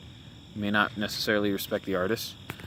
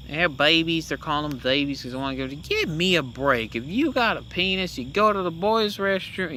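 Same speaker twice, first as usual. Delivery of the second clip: put-on Southern accent; 5 semitones higher than usual. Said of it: "he's got a very thick Southern accent".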